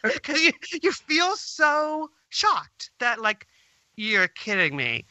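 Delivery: slow, choked with a shaky laugh; slow down as tears rise; fighting back tears. Real, not acted. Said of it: "trying not to cry".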